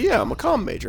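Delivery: high, mocking student voice. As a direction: imitate them airily. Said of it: "They're like".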